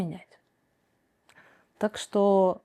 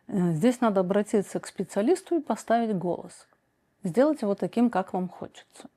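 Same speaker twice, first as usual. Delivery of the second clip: usual speaking voice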